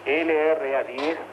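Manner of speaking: slow, spaced-out dictation so it can be written down. Real, not acted. Radio host dictating a message to the other station, slowly and evenly. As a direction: dictate each phrase slowly and clearly.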